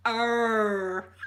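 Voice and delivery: failed r attempt. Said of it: "And we're going".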